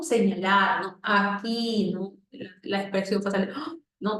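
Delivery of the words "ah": surprised gasp "ah". Shown as a demonstration. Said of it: "De sorpresa".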